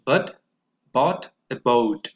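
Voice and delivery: slow, with a stressed Maud; careful model for repetition; slow model sentence. Shown as a demonstration. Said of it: "pronounce them after me".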